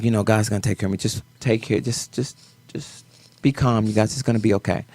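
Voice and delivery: a quiet, steadying reassurance; trying to be calm. Retold or imitated. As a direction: soothe the family quietly. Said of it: "I'm trying to be calm".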